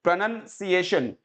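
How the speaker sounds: प्रोनंसिएशन in measured syllables; careful pronunciation. Shown as a demonstration. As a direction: say प्रोनंसिएशन with NUN in the middle, not NOUN. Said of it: "यानी कि उच्चारण". (प्रोनंसिएशन का स्पष्ट उच्चारण)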